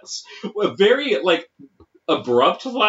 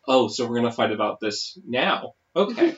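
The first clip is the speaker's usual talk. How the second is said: lower, softer challenge, then a lifted okay; judgy tone; 4 semitones lower, 4 dB quieter than usual. Retold or imitated. Kurt putting down his menu before a fight, judgy. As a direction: imitate a miffed partner bracing for a fight. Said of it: "it's just the tone".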